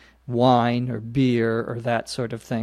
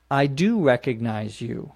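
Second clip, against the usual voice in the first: I do recognize you, with do stressed. Shown as a demonstration. Teacher showing learners the emphatic do. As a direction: lean on the word do. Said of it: "which you may say, instead of just saying".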